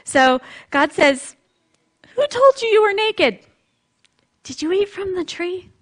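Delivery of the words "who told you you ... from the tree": gentle questioning. Pretend. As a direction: ask like you already know and forgive. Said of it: "That's how I imagine God saying it".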